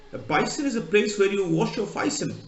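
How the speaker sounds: light Cockney "bison" said again; a hint of Cockney, "bison" for basin; Cockney accent. Teacher repeating the Londoner, light Cockney accent. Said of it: "Just typical Cockney".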